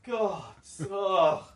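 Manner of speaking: loud, high, fed-up sighing; weary groan. Pretend. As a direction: moan like you've had enough. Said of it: "They come out going".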